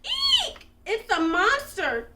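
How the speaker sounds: high, loud squeal of terror; panicked high-pitched scream; frightened cry. A narrator's reading. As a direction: shriek like a scared little duck. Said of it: "cried the duck".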